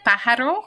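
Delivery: "pájaro" stressed PÁ-ja-ro; stress on first syllable. Shown as a demonstration. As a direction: lean hard on the first a of "pájaro". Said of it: "Remember that accent is".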